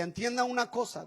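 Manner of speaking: a hint of the mentor's commanding voice; imitating manly mentor. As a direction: lightly voice the stern manly mentor. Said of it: "hablaba muy varonilmente".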